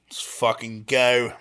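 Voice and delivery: put-on botched Aussie accent drifting British; slow British-tinged cheer; British-leaning accent. Comedian attempting Australian for his co-host, accent slipping British. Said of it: "that was more British".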